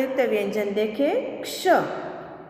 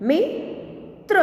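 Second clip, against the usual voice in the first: slow reading; 7 semitones higher than usual. Shown as a demonstration. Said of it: "के उदाहरण हम देखें".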